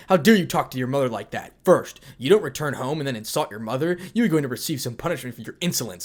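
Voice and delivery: loud, furious father berating his son; angry scolding. Acted. Goro berating his son, angry loud scolding. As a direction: tear into him for his insolence.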